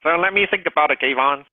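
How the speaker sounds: high whining prospect; whiny voice. Pretend. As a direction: whine it like a hesitant buyer. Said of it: "the whiny voice".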